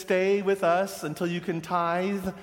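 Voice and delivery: mock patronising elders; condescending. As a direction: pat the young people on the head. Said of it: "they were mostly condescending".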